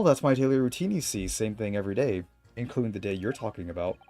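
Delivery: a hint of a creaky old man. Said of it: "I was trying to do the old man voice".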